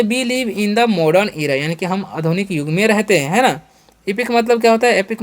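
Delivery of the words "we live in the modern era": very slow, word by word; slow classroom dictation; slow example sentence. Shown as a demonstration. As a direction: spell it out slowly for the class. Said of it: "तो बोलेंगे".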